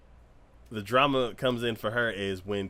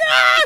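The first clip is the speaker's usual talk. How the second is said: loud hammed-up sobbing cry; mock crying wail; 17 dB louder than usual. Girl rushing to injured runner, crying wail. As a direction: burst out wailing, imitating her. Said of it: "She's all crying".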